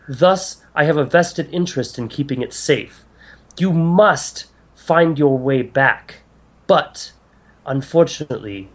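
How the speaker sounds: lightly voiced goddess, pleading then solemn; formal, emphatic exposition from a concerned deity; earnest goddess. Game master voices goddess.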